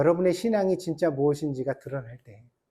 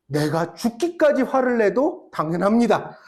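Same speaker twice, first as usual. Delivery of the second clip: Jonah's answer laughing; 3 semitones higher, slower than usual. Retold or imitated. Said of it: "요나의 대답이 뭐였는 줄 알아요?".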